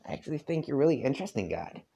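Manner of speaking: put-on a light southern accent. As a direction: rattle it off again in a southern accent. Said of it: "I'm trying to do a southern accent".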